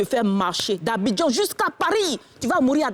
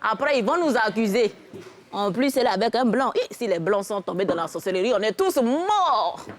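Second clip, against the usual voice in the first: put-on old village woman. Old woman warns the couple about sorcery, elderly voice. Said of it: "Il y a une vieille femme bêtée de quatre-vingt-douze ans".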